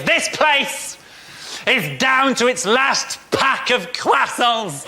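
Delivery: slow, grave mock tension; milk it like a war report; hammed-up reporter on croissant shortage; mock dramatic reporter. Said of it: "the reporter genuinely said this phrase".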